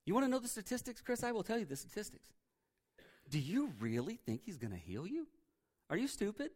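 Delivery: hushed, taunting tempter; insinuating whisper, voiced. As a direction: plant doubt softly, almost under your breath. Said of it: "He starts whispering that in your ear".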